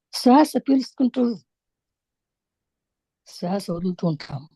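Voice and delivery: measured meditation-teacher delivery with long pauses; unhurried spiritual instruction, phrase by phrase; guided meditation. Real, not acted. Leads a breath meditation.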